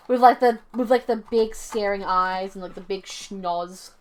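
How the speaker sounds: talking round a mouthful of ice; words muffled by ice. Real, not acted. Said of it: "I have ice in my mouth again".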